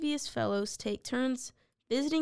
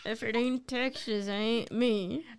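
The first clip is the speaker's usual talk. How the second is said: put-on Texas accent. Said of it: "I got my Texas accent".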